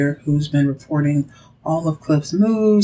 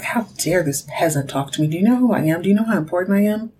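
scoffing; faster than usual. Retold or imitated. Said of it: "She scoffs at this".

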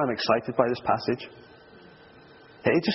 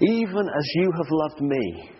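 slow, weighty reading; 3 semitones higher than usual. Shown as a demonstration. Preacher rereading the verse slowly to the congregation, unhurried. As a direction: dwell on each word of "Even as you have loved me". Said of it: "Said it before I could find it".

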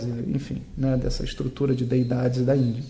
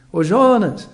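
calling out; 4 semitones higher, 5 dB louder, slower than usual. Shown as a demonstration. Teacher shows how you call a friend, calling out. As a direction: call a name across the room, louder and higher. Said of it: "quando se fala assim".

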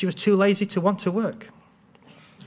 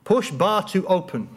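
deadpan; 3 semitones higher than usual. Retold or imitated.

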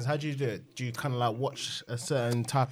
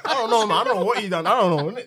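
laughing; 6 semitones higher, 6 dB louder than usual. Real, not acted. Laughing at the accent attempt.

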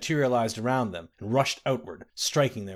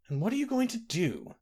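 high, frightened whimper; pinned captive begging his captor, whimpering; 10 semitones higher than usual. A narrator's reading. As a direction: plead up high in fear. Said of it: "whimpered Lord Errol".

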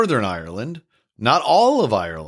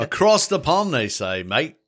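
mock Australian accent; 5 semitones higher than usual. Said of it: "you had your Australian accent".

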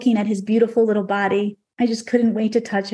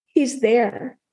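tearful. Real, not acted. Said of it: "welling up with tears".

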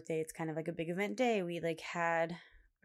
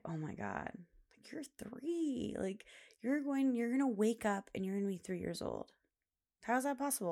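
tender hushed wonder; 5 semitones higher than usual. Retold or imitated. Mother at bedtime to her daughter turning three, hushed and awed. Speaking to sleeping three-year-old.

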